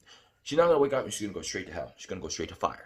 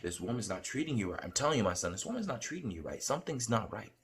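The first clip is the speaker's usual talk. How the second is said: lightly voiced, softer Lord giving counsel; gently lowered voice, a hint of fatherly authority; 6 dB quieter than usual. The Lord warning his son about this woman, lightly voiced and hushed. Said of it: "And the Lord's like".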